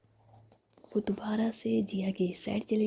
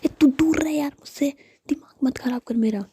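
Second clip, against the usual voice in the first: higher, louder whispered telling-off; angry whisper; 6 semitones higher, 7 dB louder than usual. Acted. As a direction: push her away with a cross whisper. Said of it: "इतना गुस्सा क्यों कर रही है?". (गुस्से में तेज़ फुसफुसाहट)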